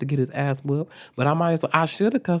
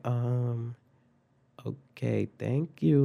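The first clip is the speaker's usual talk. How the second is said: blank confusion; 4 dB quieter, much slower than usual. Retold or imitated. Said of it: "had the blankest expression on her face".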